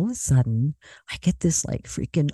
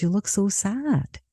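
softer, higher, sympathetic observation; retold gentle concern; 5 semitones higher, 5 dB quieter than usual. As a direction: voice a friend's tender worry. Friend worried about her.

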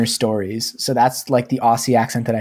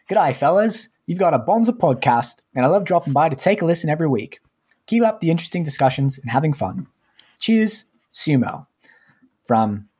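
higher, hammed-up Australian accent read aloud; 5 semitones higher than usual. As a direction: read the review like a cheery Aussie fan, pitched up. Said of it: "And now I will start the accent".

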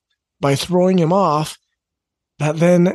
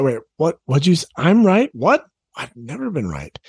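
put-on shocked teen. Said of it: "your teen will probably be shocked".

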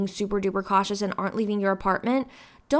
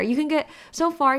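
higher, clean retake after the crack; 5 semitones higher than usual. Real, not acted. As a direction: say it again without the crack. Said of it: "my voice cracked there".

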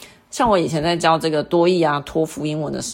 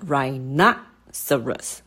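rhinoceros, slow with NO raised; stress on second syllable; 3 semitones lower, much slower than usual. Shown as a demonstration. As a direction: stretch and lift the NO in rhinoceros. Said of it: "na的部分哦".

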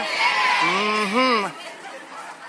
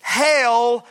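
slow proclamation; slower than usual. Shown as a demonstration. Pastor reading the crowd's slow praise aloud. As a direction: draw out the praise slowly. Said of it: "watch what they say here".

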